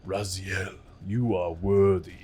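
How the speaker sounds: put-on slow ominous old man drawl; a lightly voiced creepy elder god. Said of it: "he was the creepy old man voice".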